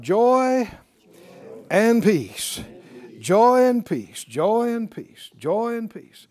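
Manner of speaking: slow, ringing "Joy and peace" repeated; said out loud. Shown as a demonstration. Preacher leading the church to say it aloud, firm and ringing. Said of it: "Said out loud".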